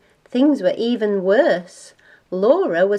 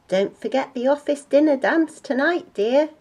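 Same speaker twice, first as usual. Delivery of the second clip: a touch higher, chirpy reminder; lightly acted parting reminder to a spouse; lightly voiced father's reminder; 6 semitones higher than usual.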